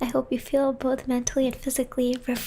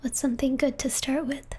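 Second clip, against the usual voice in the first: whispering; 2 semitones higher than usual. Real, not acted. Whispering ASMR stream.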